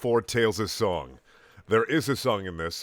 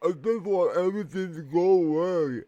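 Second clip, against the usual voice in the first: trying not to cry; 8 semitones higher, 4 dB louder than usual. A narrator's reading. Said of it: "trying not to cry".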